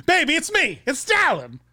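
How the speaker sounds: squeaky mock fan voice; high silly voice.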